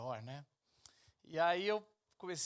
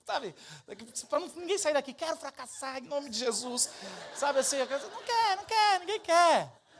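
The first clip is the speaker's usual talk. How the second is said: excited pleading; 10 semitones higher, 10 dB louder than usual. Retold or imitated. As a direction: beg him, pitched way up. Mock-pleading with Elias.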